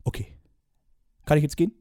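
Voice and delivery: bossy TV judge, fast and pushy; a hint of a stern casting-show judge; a pop producer. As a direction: lecture him like a pompous pop titan. S0 holds the judge role.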